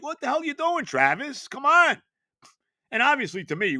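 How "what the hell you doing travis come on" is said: high, loud mock rebuke of Travis; lightly voiced angry coach; mock coach scolding. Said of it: "What was that?".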